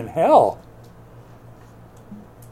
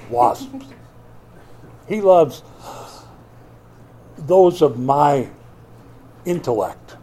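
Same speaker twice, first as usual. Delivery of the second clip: mock bigoted boast; 4 dB louder than usual. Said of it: "I'm doing that as a joke".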